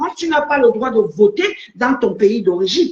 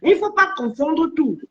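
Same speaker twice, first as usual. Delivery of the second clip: insistent. Real, not acted. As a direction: defend your point, stretching the last words. Heated defence of own statement.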